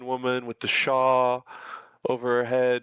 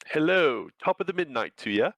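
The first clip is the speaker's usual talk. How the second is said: attempted Irish accent; 3 semitones higher than usual. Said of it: "I can't do the accent".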